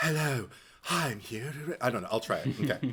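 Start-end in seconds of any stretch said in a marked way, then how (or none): 0.0-1.5 airy, breathy dubbing voice with excess air. Showing how film dubbing sounds: breathy dubbing voice with excess air. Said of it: "not whispering, but a great deal of air".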